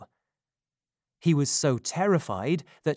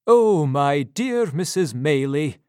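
louder anxious exclamation; a doctor's fussing concern; cried out; 7 dB louder than usual. Acted. Doctor greeting the frightened Mrs Maylie, louder fussing cry. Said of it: "cried Doctor Losberne".

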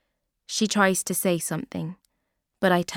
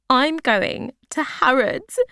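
excited high; 7 semitones higher, 6 dB louder, slower than usual. A narrator's reading. Becky thrilled by the trip.

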